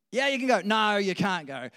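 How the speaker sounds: loud, high yes snapping into a refusal; hammed-up ruler changing his mind; flip-flopping Pharaoh. Acts Pharaoh giving in, then refusing.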